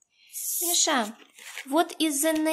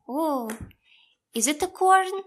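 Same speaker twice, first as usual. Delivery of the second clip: put-on reading to a toddler. Teacher talks to small child.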